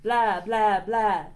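loud, punchy vampire blahs; hammed-up vampire going blah; vampire dragon. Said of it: "The vampire dragon says".

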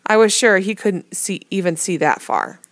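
ordinary delivery

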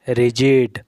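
"रिजिड" with a j sound in the middle; soft G word. Shown as a demonstration. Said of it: "letter जी का उच्चारण".

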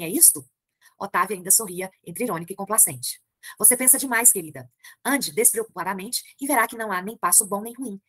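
reading a novel aloud to the class; measured literary narration; story reading. A narrator's reading. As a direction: read it like a storyteller. Teacher reads the novel aloud.

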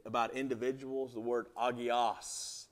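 agios said as ah-GEE-os; word agios. Shown as a demonstration. Preacher sounding out agios for the congregation. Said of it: "he says".

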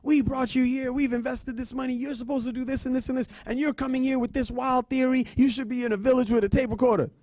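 high-pitched, hammed-up angry scolding; livid professor. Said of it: "She was so mad. She was so livid".

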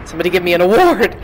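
fast, loud, triumphant boast; somebody give me an award, yelled in glee; excited boast. Real, not acted. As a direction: crow about being right, quickly and loudly. Gloating after guessing right.

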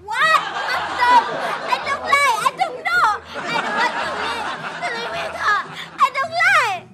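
disgusted whine. Acted. Kid disgusted by shrimp paste.

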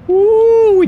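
high, loud whoop of joy; excited whoop. Real, not acted. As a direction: cheer like you just made it. Made a big jump.

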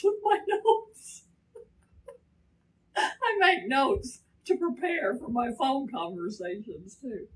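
words broken by laughter; laughing at her own habit. Real, not acted. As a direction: laugh through the line at yourself. Laughing at herself.

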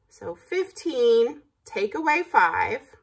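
slow, spelled-out math; slow teaching. Shown as a demonstration. Teacher showing kids the sum, slow and spelled out. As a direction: drag each number out for the class. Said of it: "teaches subtraction".

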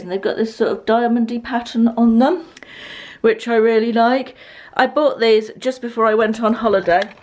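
breathless after running upstairs; out of breath. Real, not acted. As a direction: talk while still catching breath. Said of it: "Sorry, I'm out of breath from running up the stairs".

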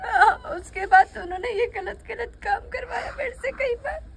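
crying out through tears; sobbing confession. Acted. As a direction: blurt it out while sobbing. Girl breaks down recounting abuse. (रोते हुए चीखकर बताना)

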